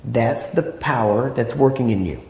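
slow down to let each word land; measured, emphatic preaching pace; slow, deliberate. Real, not acted. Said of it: "I know I'm talking slow and going through these slow".

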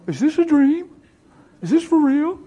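high-pitched, amazed questions; imitated overwhelmed disbelief. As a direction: act out their stunned wonder. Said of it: "they're standing there choking up".

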